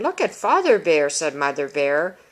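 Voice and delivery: imitating a child running the sentence together without pausing; rushed child's reading. Teacher mimicking a child who ignores punctuation, rushed reading. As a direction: read "Look at Father Bear, said Mother Bear" straight through, no breath after "Bear". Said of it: "this tells us we need to slow down".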